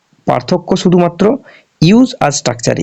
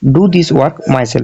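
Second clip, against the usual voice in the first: slow dictation; much slower than usual. Shown as a demonstration. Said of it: "তখন কি হলো স্ট্রাকচারটা".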